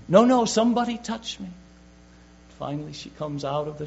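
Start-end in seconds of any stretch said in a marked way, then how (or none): 0.1-1.5 higher and louder, firm; insist, cutting off the doubt; Jesus correcting Peter, firm and loud. Acted. Preacher voices Jesus insisting.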